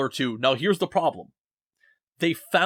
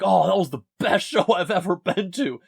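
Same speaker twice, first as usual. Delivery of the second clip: higher, hammed-up fan excitement with a laugh; mock gushing; 6 semitones higher, 4 dB louder than usual. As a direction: imitate an overexcited young concertgoer. Retold gushing of young concertgoers.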